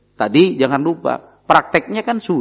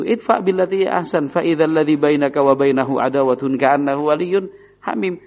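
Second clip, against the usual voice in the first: measured melodic Quran chant; Quran recitation. Acted. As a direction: recite it like tilawah, drawing out the vowels.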